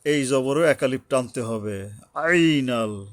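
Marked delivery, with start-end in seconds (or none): 2.1-3.1 "আইনাল" with a careful throat ayn and drawn-out vowel. Shown as a demonstration. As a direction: recite "আইনাল" slowly, sounding the Arabic ayn. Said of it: "আইন উচ্চারণে সাবধান হতে হবে".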